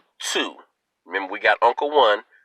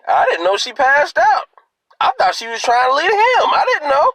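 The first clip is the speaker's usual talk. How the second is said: excited storytelling; 4 dB louder than usual. Real, not acted. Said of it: "excited retelling".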